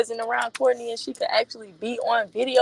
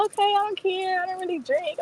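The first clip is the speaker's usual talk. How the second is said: imitating her friend; 9 semitones higher than usual. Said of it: "She was just like".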